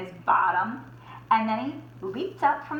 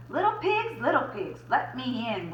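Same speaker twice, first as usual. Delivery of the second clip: mock roar; 2 semitones higher than usual. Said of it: "roared the wolf".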